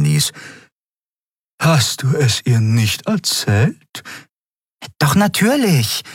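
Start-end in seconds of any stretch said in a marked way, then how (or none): 1.6-6.0 raised, lighter character tone. A narrator's reading. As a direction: lift the voice for the dialogue. Dialogue between characters.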